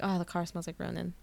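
whispered, lovestruck; dreamy whisper. Retold or imitated. Fan voicing Adam smitten with Ronan's car, whispered. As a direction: breathe it like a secret crush. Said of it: "he's just like".

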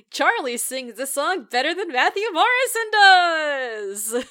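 loud, slow, high proclamation; emphatic declaration. Real, not acted. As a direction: announce it like a bold verdict. Emphatic hot take.

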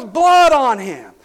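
high, loud, slow and amazed; excited shout. Retold or imitated. Coach amazed to see blood on the player. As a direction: crow it out in awe. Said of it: "He goes, he goes".

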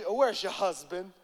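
slow, prying mock prophet; mock false prophet. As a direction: drag it out like a fake seer. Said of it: "That sounds like a false prophet".

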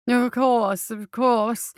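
hurried, nervous doctor voice; flustered doctor. Acted. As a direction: placate him quickly. Flustered physician answers.

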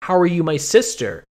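mock bewildered disbelief; incredulous Barbie. Barbie answers the Pegasus claiming to be her sister, mock incredulous.

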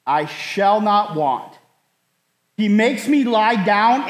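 slow, measured Bible reading; scripture reading. Acted. Pastor reading the psalm to his flock, slow and measured. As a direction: read it out slowly to the congregation.

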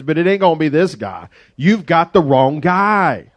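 incredulous, protesting he's not the one; reluctant disbelief. Retold or imitated. Gideon protesting to the angel, a touch of mock panic. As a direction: shrug off the calling. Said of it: "He more or less responds".

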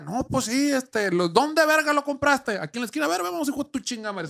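high, incredulous friend; outraged disbelief. Retold or imitated. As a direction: react like the price is insane.

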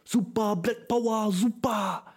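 high, sing-song mock cheering; high-pitched imitation of a grinning stranger; mocking an overeager stranger. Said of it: "macht so seine Faust in die Luft und sagt so".

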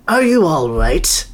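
slow, gentle question; a hint of a caring old man; kindly concern. Man checking on the fallen hedgehog, gentle. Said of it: "the man asked".

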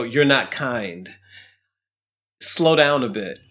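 calmly puncture the anger bubble, slowly; calm, gentle rebuke. Retold or imitated. Friend calming an angry guest at a party, slow and gentle. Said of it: "precisely the way I'm saying in terms of his tone and delivery".

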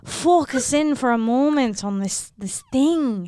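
chatty Irish accent. Shown as a demonstration. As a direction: tell it in an Irish lilt. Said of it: "I do accents with my mom and others".

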